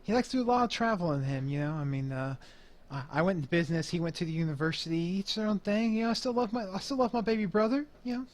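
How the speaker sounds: lightly voiced businessman, pitch often lifting; chatty club boss Mo. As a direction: ramble lightly about your baby brother. Game master plays Mo.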